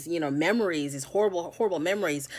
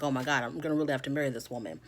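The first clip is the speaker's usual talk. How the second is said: nervous panic; 4 semitones lower, 5 dB quieter, much faster than usual. Retold or imitated. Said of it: "all nervous and shaky and anxious".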